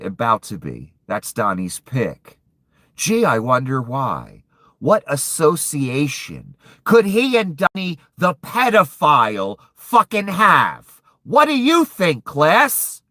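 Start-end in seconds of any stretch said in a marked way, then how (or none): 2.9-11.0 angry sarcasm. Real, not acted. Angry rant about Trump's pick. 11.2-13.0 high, loud mock schoolteacher quiz; mock teacher. Mock teacher quizzing viewers.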